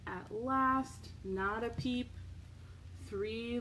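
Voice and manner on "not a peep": usual speaking voice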